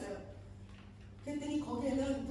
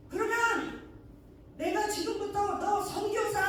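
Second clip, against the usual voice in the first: high, loud commanding voice cracking into laughter; stern divine voice; 7 semitones higher, 4 dB louder than usual. Retold or imitated. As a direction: declare it like God stripping titles, half laughing. Spirit's stern verdict, laughing.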